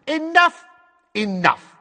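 high, loud cut-off; commanding interruption. Acted. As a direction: call out sharply to silence someone. Official cuts the boy off.

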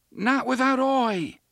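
high, loud, stubborn cry; defiant shout. A narrator's reading. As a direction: refuse at the top of his voice. Jake refuses, shouting across.

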